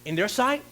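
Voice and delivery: quizzing the room again with a rise on sight; preacher prompting the crowd to answer; questioning. Shown as a demonstration. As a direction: press the question, lifting sight. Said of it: "Come on, talk to me".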